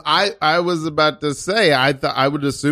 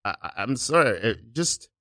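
hesitant apology; 3 semitones higher than usual. Acted. Improv timid store clerk confronts martial artist.

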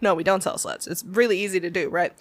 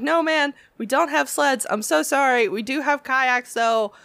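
chirpy apologetic clerk, a bit higher; customer service cheer; 5 semitones higher than usual. Retold or imitated. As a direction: sweetly pitch kayaks instead of sleds. Cheerful retail sales pitch.

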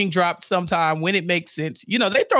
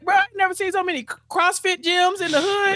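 much higher, disbelieving bruh; mock-baffled, pitched way up; as a neighbor baffled by newcomers, incredulous and high; 10 semitones higher than usual.

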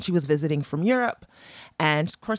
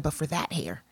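softly lowered voice; retold discreet aside; 6 dB quieter than usual. Woman hinting around little girls in jacuzzi, discreetly. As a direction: drop the volume to keep it discreet. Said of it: "I was trying to be discreet".

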